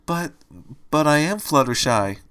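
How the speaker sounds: halting "But, but", then "am" insisted; insistent. A narrator's reading. Fluttershy protests to Angel, stammering "But, but" then insisting. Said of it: "Fluttershy insisted".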